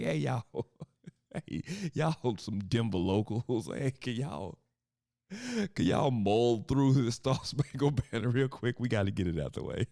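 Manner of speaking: a hint of a just-woke-up guy; lazy announcer voice. Imitating bored anthem singers.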